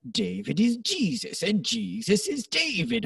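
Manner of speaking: a light Barbados accent, drawn out. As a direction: imitate his laid-back Barbados accent. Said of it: "he has this cool Barbados accent".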